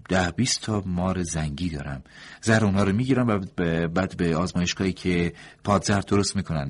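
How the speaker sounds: doctor's voice. A narrator's reading. (صدای دکتر، بلندتر و زیرتر)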